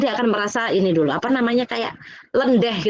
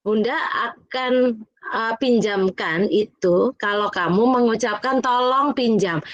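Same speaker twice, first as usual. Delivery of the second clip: calm firm teacher; slower than usual. Retold or imitated. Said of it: "saya hanya mau bilang begini".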